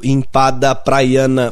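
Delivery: slow drawn-out hawker's call; singsong beach vendor call. Acted. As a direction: stretch the call for the whole beach. Beach vendors voiced in poem. (pregão arrastado de vendedor de praia)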